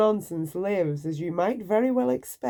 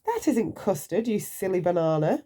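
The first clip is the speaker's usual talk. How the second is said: teasing correction. Acted. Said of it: "cried Mister Silly".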